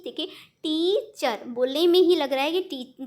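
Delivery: टी in टीचर hit with effort; stress on टी. Shown as a demonstration. Teacher demonstrates stressed टी in टीचर to students. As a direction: lean hard on टी and let चर fall away. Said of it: "टी में ज़्यादा आपको मेहनत करनी पड़ रही है".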